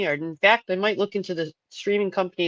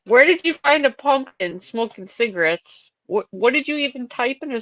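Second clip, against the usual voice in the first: can't believe what you're seeing; amazed; 7 semitones higher, 5 dB louder than usual. Real, not acted. Host amazed by a smoking pumpkin video.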